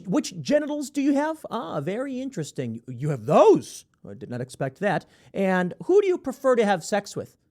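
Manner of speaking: slightly put-on, inquisitive interviewer voice; politely nosy interviewer, lightly acted; mock job interviewer. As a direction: play an over-interested hiring manager. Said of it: "imagine this scenario".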